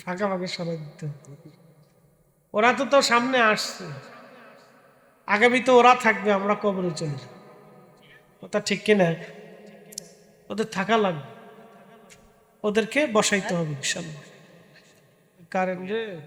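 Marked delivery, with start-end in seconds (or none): 2.5-14.2 yelling across the room. Real, not acted. Preacher addressing crowd loudly.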